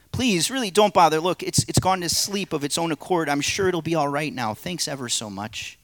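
high, loud nervous plea; the man, pleading. Acted. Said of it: "play the narrator and three parts".

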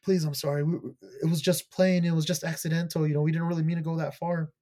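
high, loud, hammed-up pleading; mock begging. Bully begs forgiveness for what they did, mock pleading. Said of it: "she's, like, begging and shit".

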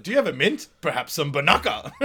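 high, lightly voiced auntie; prim old lady, mocking. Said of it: "talking as if he's his aunt".

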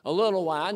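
little stretched with a rise; a little wine, little held and lifted; stress on little. Shown as a demonstration. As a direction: underline little with the voice. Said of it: "I emphasize little, underline little".

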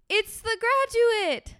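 high, excited gasp of surprise. Real, not acted. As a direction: gasp and announce him with delight. Sees son walk in.

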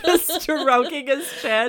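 Snidey Whiplash. Retold or imitated. Reading the smutty line back as a sneering melodrama villain. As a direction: leer like a moustache-twirling villain. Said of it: "Snidey Whiplash".

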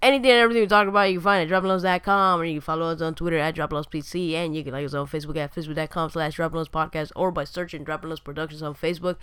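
fast rattled-off podcast plug; quick ad read; outro plug. Acted. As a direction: rush through the links like a closing ad read.

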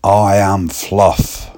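slow, deliberate I am Fluff; slow odd declaration. Retold or imitated. Young lad announcing himself as Fluff, slow and deadpan. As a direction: say it slowly and solemnly. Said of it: "the young lad said".

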